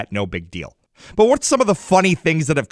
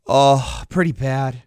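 put-on dramatic kid; slower than usual. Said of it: "he's being all dramatic".

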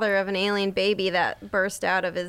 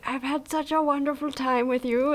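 lightly voiced tender alien; a hint of the alien lady, fond; 4 semitones higher than usual. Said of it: "then he's like".

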